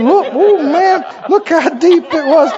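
slow, high, loud, eager showing off; excited boy. Retold or imitated. A small boy showing the preacher his knee, eager. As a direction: proudly show the wound. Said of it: "He said".

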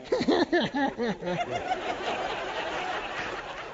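high wheezy snickering cartoon laugh; imitating Muttley's snicker. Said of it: "He had that snickering laugh".

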